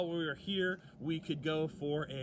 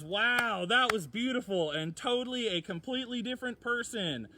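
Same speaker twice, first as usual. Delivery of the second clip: excited; 6 semitones higher, 6 dB louder than usual. Real, not acted. Amazed after sax performance.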